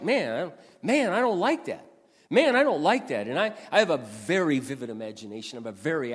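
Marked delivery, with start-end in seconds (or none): 0.0-3.3 inner grumbling. Retold or imitated. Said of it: "I found my mind going to the things".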